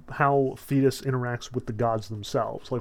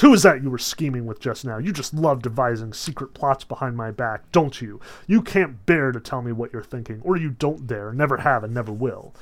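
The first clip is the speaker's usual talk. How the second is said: accusing Hera; 4 dB louder than usual. Retold or imitated. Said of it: "Hera immediately calls him out".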